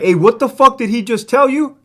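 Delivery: high-pitched indignant outburst, re-enacted; imitating upset friend. Inmate's friend reacting to an insult, retold indignant. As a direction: act out a friend taking offense on someone's behalf. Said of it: "His friend got upset".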